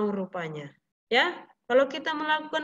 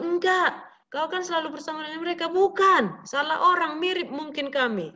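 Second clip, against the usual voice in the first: higher, hurried flustered denying; panicky denial; 4 semitones higher than usual. Acted. Peter nervously denying he knows Jesus, flustered and quick. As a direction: brush off the accuser, nervous and quick.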